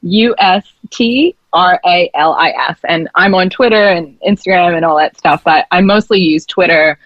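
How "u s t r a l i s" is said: spelling it out. Shown as a demonstration. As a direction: spell each letter out clearly. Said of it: "let me spell it for you".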